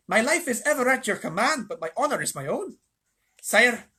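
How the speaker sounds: shrill, proud mouse voice; Reepicheep. A narrator's reading. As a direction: petition grandly as a small, high-voiced mouse. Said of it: "came a shrill voice".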